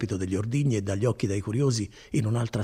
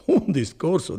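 higher, louder, with a laugh on un discorso; amused emphasis; 7 semitones higher, 6 dB louder than usual. Acted. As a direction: repeat it admiringly, chuckling. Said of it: "dicono, da dare alle stampe". (un discorso ripetuto più alto, ridendo)

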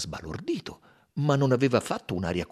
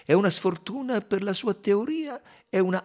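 raised, quick character voice, pitched well above the narration; voiced detective character; 9 semitones higher than usual. Detective pointing out a lucky break to companions, high and quick. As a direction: lift the voice high and rush the middle. Character speaks in quoted dialogue.

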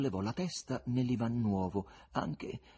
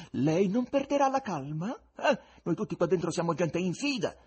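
a raised, insistent guest voice; the guest, sly and probing; 7 semitones higher, 6 dB louder than usual. Acted. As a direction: needle him with mock concern. Guest voiced high and keen.

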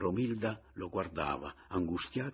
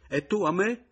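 quick retort; 13 semitones higher, 9 dB louder than usual. Acted. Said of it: "disse egli allora pronto".

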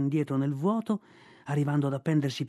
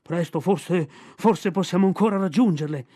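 panting; 4 dB louder than usual. Acted. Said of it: "ansimò Balù".

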